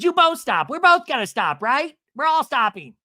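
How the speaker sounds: high, loud mock scolding; insistent peacemaking. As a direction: break up the fight, acted high and loud. Retold peacemaker breaking up quarrel.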